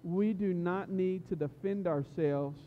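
deliberate preacher's reading, stressing key words; emphatic scripture reading. Acted. Youth pastor reading the three men's reply to the king, emphatic scripture reading. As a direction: read the reply out firmly, phrase by phrase.

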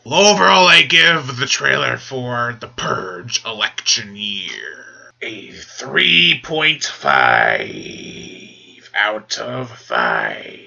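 slow it down for the verdict; slow rating. Real, not acted. Drawn-out rating reveal.

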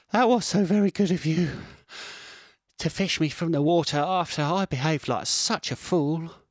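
high, loud squirrel voice full of thanks; grateful squirrel. Acted. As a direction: gush thanks to the fish who saved him. Squirrel thanks his rescuer.

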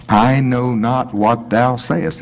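slow denial. Pretend. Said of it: "It sounds almost like Yoda".

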